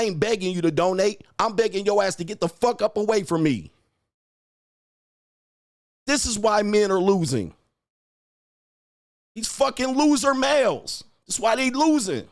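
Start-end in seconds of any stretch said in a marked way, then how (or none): 6.1-12.3 higher, ranting scorn; heated taunting. Real, not acted. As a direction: spit the insults out. Escalating rant at viewers.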